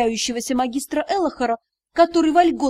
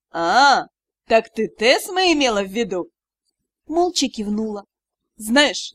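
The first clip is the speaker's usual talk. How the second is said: mentor magister explaining. Acted. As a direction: explain calmly like a teacher.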